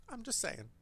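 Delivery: trailing off under breath; muttered. Real, not acted. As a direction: repeat it under your breath. Repeated, fading to a mutter.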